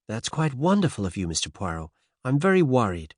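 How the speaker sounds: put-on faint transatlantic American accent; light American lilt, lifted pitch. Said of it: "faint transatlantic accent".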